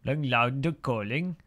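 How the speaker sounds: half-hearted attempt at a Dutch accent; imitated Dutch, rising at the end. Shown as a demonstration. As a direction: try the Dutch accent, not quite managing it. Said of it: "I can't do the Dutch, the Dutch voice".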